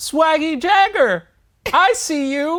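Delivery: very loud, shrill, high, drawn-out holler. Retelling a greeting a Lyft driver shouted out the window: imitating a driver shouting. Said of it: "Can we replay that?".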